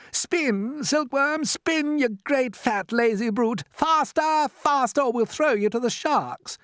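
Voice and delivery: high, loud frantic yelling; shouting from the depths. Acted. Centipede urging the spinners, frantic high shout. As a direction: centipede bellowing orders up the tunnel.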